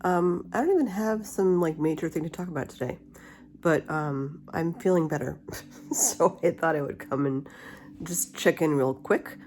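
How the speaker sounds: talking with a retainer in; wearing a retainer. Real, not acted. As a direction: retainer in the mouth, slightly blocked speech. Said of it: "I have my retainer in".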